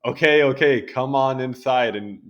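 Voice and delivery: exasperated mock surrender, starting loud and high; lightly voiced bivalve. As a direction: play a bivalve finally relenting. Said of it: "that bivalve is like".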